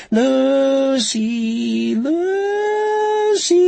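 very high, drawn-out sing-song chant; Nightbird. A narrator's reading. Killer chants Lucy's name from overhead speakers, sing-song. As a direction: taunt in a long, high sing-song call. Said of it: "The Nightbird's sing-song voice chanted from overhead speakers".

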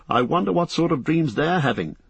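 high, anxious hobbit; Frodo, concerned. Acted. Frodo asking Sam after their friends, high and concerned. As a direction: pitch it up with concern.

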